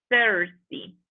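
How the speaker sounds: "Thirsty" repeated carefully for learners; teacher's careful repeat of "Thirsty"; pronunciation demo. Shown as a demonstration. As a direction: say "Thirsty" as a clear model with a falling end. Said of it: "Pendiente a la pronunciación de esta palabra".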